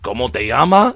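learner trying it, ending on a questioning rise; imitated hesitant learner. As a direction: repeat it back as if checking. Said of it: "And I'm just like, uh".

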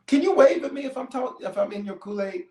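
high-pitched playful needling; teasing challenge. Real, not acted. Teasing the congregation for a response.

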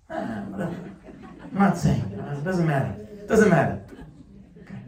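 loud, huffy "doesn't matter"; sulky brush-off. Retold or imitated. Husband brushes off his wife, sulky. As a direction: sulk and wave her off.

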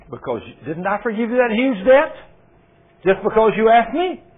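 king rebuking the wicked servant; indignant rebuke. Acted. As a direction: confront him with his ingratitude.

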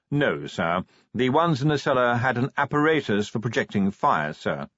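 lightly voiced formal butler; deferential butler. Butler reporting on intruders to Vimes, deferential. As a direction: report formally, dropping on the closing "sir".

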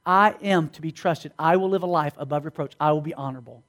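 low-pitched earnest pledge; solemn vow. Acted. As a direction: declare it as a solemn promise. Vow spoken to a date.

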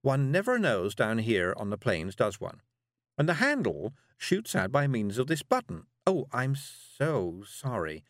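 lightly voiced scatty witch; a hint of a genteel, flustered witch; dotty witch, apologetic. Miss Level demonstrates her invention and apologises, mildly flustered.

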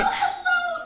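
very high, cooing greeting; squeaky, laughing hello; mock-sweet hello. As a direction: greet a friend in hammed-up sweetness.

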